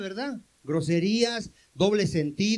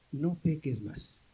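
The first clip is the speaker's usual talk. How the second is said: softer, slow, tender voice of Christ; gentle admonition; 5 semitones lower, 5 dB quieter, slower than usual. Acted. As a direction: speak it like a loving final warning, slowly and softly. Jesus zur Ehebrecherin.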